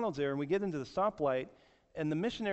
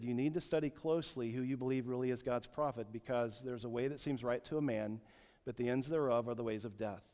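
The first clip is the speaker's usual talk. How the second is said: gentle retold warning, a little subdued; calm, understated admonition; speaking nicely; 3 semitones lower than usual. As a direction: counsel them kindly, without pressing. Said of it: "I began to just speak that nicely to them".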